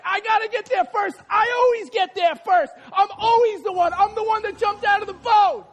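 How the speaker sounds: high, urgent competitive insistence; excited acted striving; Peter racing. Peter straining to win race.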